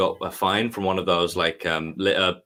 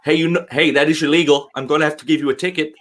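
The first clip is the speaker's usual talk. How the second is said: higher, louder and fast, a bossy little officer; tiny cop impression; 8 semitones higher, 5 dB louder than usual. Higher, louder, fast mock cop telling jaywalkers off. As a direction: play the pint-sized cop barking out the rule. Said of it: "five-foot-tall police officer jogged up to us and was like".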